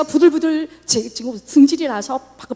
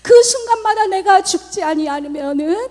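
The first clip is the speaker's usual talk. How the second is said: tearful praise; 4 semitones higher, 4 dB louder than usual. Retold or imitated. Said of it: "주님을 찬양해요".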